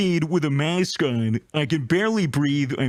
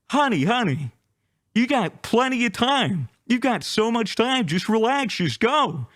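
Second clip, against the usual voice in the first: lightly voiced lady, pitched up high; sweet airport lady; 6 semitones higher than usual. Airport lady calling the panicked traveller honey, in a high cooing voice. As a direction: coo it like a kindly lady calming a flustered traveller. Gate lady soothing the rushing speaker.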